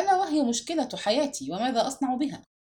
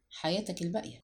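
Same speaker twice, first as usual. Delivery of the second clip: flustered mutter; 2 semitones lower, 8 dB quieter than usual. A narrator's reading. Man murmurs back to a condoling colleague, flustered. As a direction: mumble it, caught off guard. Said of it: "وتمتمت في ارتباك".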